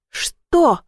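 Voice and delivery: high curt snap; high retort; snapping back. A narrator's reading. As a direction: snap the word back at her. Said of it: "огрызнулась я".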